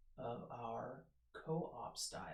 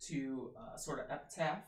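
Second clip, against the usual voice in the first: ordinary delivery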